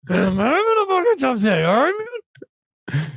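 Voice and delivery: high, whiny mockery of a friend's complaining. Host mocks his tired co-host's bad-day complaining, high and whiny. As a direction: ham up his grumpy bad-day moan.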